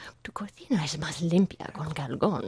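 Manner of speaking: fake seductive, breathy voice. Repeating a Spanish commercial line as a joke, in a put-on sexy, breathy voice. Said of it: "like sexy, breathy voice".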